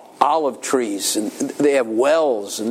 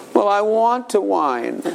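high, slow whine with a laugh; imitating grandson; whiny child; 7 semitones higher, slower than usual. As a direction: whine it like a little boy. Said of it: "And he said".

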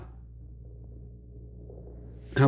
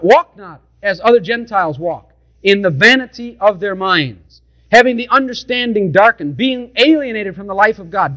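measured King James reading; scripture reading. Real, not acted. Preacher reading Ephesians to the congregation, measured scripture voice. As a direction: read it out like holy writ.

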